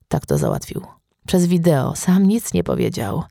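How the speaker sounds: ordinary delivery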